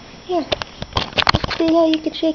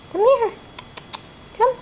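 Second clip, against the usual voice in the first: coaxing a pet; 8 semitones higher than usual. Real, not acted. Calling the parrot.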